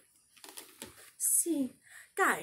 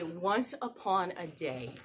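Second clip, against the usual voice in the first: story opening; 3 semitones lower, 4 dB quieter than usual. Shown as a demonstration. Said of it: "we're gonna say".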